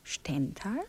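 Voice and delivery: hushed whispered exchange; whispering. Acted. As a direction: keep it to a whisper. Hushed lovers' talk.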